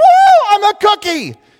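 very high, loud, shrill, swooping gleeful whoop. Narrating a story, voicing a mouse that just jumped into a cookie jar, excited. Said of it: "with excitement".

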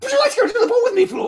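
very high, very loud, shrill blubbering. Picturing Ron asking Fleur to the ball, imitating Ron blubbering. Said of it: "his whole face just, like, blubbering up".

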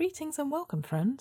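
bright, friendly, cheerful, pleasant high tenor voice. A spirit appears above a fountain and greets the visitor, cheerful, pleasant tenor voice. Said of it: "it says cheerfully in a pleasant tenor voice".

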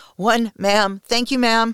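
put-on trembling voice. Counting a stroke aloud for ma'am, the narrator replies with a shaking voice. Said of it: "with a clear shaking in my voice".

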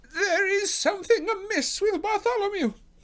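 very high, panicked, terrified outcry. Thaddeus Sholto runs out of the house toward the others, crying out in terror. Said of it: "he cried".

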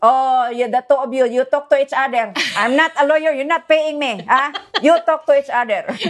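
put-on own Filipino accent, put on thick. Retelling what the speaker says when the others argue, in a Filipino accent. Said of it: "I would say in my Filipino accent".

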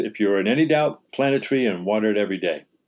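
normal talking voice

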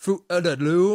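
put-on British accent, drawn out, slow and high. Mimicking how the other speaker said a brand name: imitating a British-sounding accent. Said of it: "You're like".

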